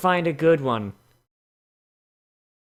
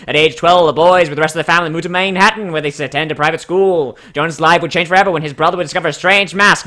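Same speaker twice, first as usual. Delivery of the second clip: louder race-caller read of the backstory; horse announcer voice; 2 semitones higher, 5 dB louder than usual. Pretend. Streamer reading the pony bio as a race announcer. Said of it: "let's do a horse announcer voice".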